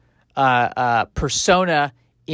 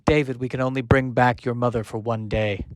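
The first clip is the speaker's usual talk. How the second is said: softer solemn robot voice; 4 semitones lower, 4 dB quieter than usual. Acted. Future robot tells young robot David, solemn and soft. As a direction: break the news gently, solemn. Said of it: "voice of the robot".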